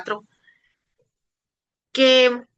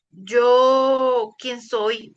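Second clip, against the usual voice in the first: voz quebrada de llanto al responder; llorando; 4 dB louder, much slower than usual. Retold or imitated. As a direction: deja que el llanto corte la voz. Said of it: "llorando, llorando". (llorando al decirle al Señor quién soy)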